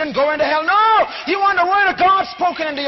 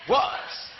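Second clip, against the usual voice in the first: awed whisper; 9 semitones higher, 6 dB quieter than usual. Acted. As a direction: breathe the last word in a whisper. Climax of Genesis reading.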